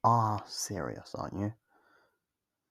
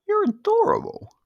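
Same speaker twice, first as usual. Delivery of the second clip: condescending taunt; 11 dB louder than usual. Acted. Vampire taunts frightened hunter.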